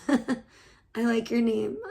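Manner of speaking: laughing. Real, not acted. Laughing at viewer's name.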